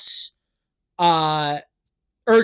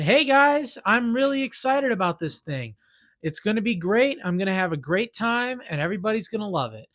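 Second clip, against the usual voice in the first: bubbly self-quote that rushes at the end; excited greeting. Retold or imitated. Voicing his own eager post to the Reddit crowd, mock-excited. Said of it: "And I'm excited. I'm happy. I'm saying".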